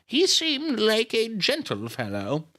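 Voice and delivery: put-on high, slow old-lady voice. A narrator's reading. Miss Miller questioning grieving Nita, slow old lady. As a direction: draw it out as a genteel old woman. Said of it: "she's an old lady".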